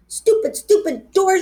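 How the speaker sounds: high, slow, half-crying holler. A narrator's reading. Girl hollering at the locked doors, frustrated and teary. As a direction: stamp out the words like a frustrated kid near tears. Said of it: "I hollered".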